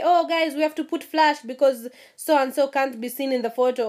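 a touch of a bright announcing voice; imitating friends, lightly voiced; mock announcement. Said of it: "make an announcement and say".

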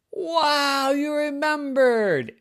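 high, slow delighted wow; amazed little girl. A narrator's reading. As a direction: breathe it in wonder like a surprised child. Yvette amazed.

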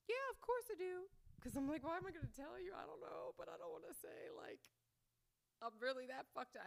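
high-pitched, defensive little voice; squeaky bluff. Retold or imitated. Acts out bluffing the jail clerk.

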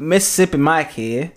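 put-on failed Southern accent. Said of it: "That was not Southern at all".

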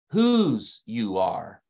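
WHOSE drawn out slowly with its final S sounded; S made audible. Real, not acted. Preacher making sure listeners catch the S, stressed WHOSE. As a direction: stretch WHOSE so the S at the end carries. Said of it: "that S slipped through in, in my accent".

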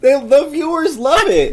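high, very loud comeback; loud, slow defiant yell; defiant shout. Real, not acted. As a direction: shout it back gleefully, drawn out.

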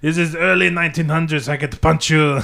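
mock French accent. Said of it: "like, in French".

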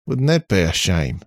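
robot voice. A narrator's reading. Robot Charlie explains.

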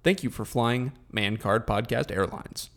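mock pilot over the cabin speaker; airline captain announcement. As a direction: deliver it as a measured captain's address to passengers. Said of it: "This is your captain speaking".

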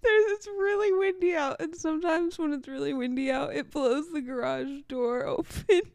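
laughing and half crying at the start; laughing explanation. Real, not acted. Host explaining the wind scare to co-host, tearful laughter. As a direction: recover from a fright while explaining.

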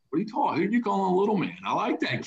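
put-on indignant kid. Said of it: "kid that kinda asks and questions".

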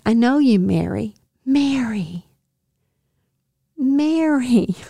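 tender recognition, calling her name; knowing, affectionate address; kind, emphatic. Acted. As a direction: call her name kindly, with space around it. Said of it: "he's saying it with kindness".

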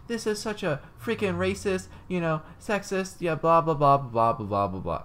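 high, slow mock indignant rant; hammed-up angry lady trailing into blah blah. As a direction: rant like the furious classmate. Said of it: "she got angry at".

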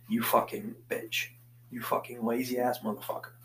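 put-on light Bostonian accent, swearing at himself. Podcaster swearing himself into action, Bostonian accent. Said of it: "put on that accent".

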